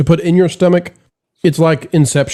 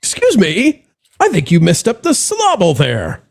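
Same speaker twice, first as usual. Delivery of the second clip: mock pedantic correction; 3 semitones higher than usual. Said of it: "called somebody on the panel and said".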